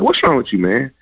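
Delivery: high-pitched, irritated challenge; retold pissed-off. Pissed player to his cheerful roommate, retold irritation. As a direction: replay your own annoyance at him. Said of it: "And I'm all pissed".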